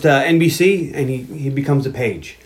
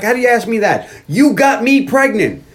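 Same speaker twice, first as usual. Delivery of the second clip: mock indignation; 7 semitones higher than usual. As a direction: throw the blame back in a high mock-angry voice. Acted quarrel over the pregnancy.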